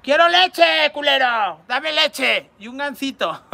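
builds from plain to a high, loud yell; requested yelling. Pretend. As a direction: scream it like a bratty kid. (grito cada vez más agudo y fuerte)

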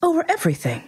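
king's claim pitched high and falling; high grand king. A narrator's reading. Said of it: "with magnificent simplicity".

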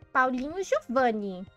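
mother scolding. Acted. Mother full-name scold.

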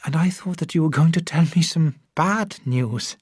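plain reading voice

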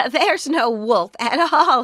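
giggled. A narrator's reading. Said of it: "he giggled".

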